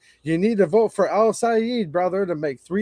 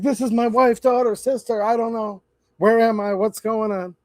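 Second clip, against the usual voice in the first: put-on lightly raised voice of a lost, muddled old man; confused old man impression; 4 semitones higher than usual. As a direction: mildly mimic a bewildered man on stage. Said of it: "doing that impersonation".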